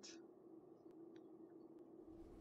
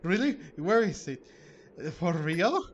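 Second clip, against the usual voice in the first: surprised; 2 semitones higher, 5 dB louder than usual. Acted. Reading an excited character reply.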